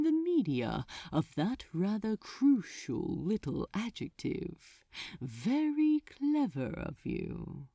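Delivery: indulge him like a silly pet; patronizing fondness. Acted. Archdemon patronizing Crowley, mildly condescending. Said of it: "regarded him with patronizing fondness".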